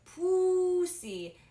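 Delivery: put-on shrieked high and loud in a Filipino accent. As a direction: yell it like a shocked Filipino mom. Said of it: "she said it like that".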